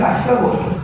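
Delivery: quick whispered hush; whispered request. Retold or imitated. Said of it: "آپ کہتے ہیں". (آہستہ سرگوشی میں ٹوکنا)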